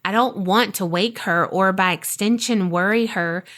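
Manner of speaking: measured, deliberate scary-story reading; horror story narration. A narrator's reading. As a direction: narrate a nightmare with weighty pauses. Reads sleep paralysis story.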